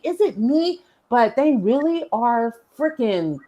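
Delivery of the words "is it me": self-doubting. Retold or imitated. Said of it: "I was like".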